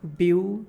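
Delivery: বিউ set apart, loud and clipped off as one beat; syllable split. Shown as a demonstration. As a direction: punch out বিউ alone as a single syllable. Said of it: "এইটাকে যদি আমরা divide করি".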